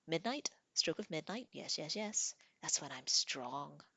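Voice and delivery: mischievous little troll savouring its game; eager troll. Acted. Troll explaining to Tanith when he plays, eager.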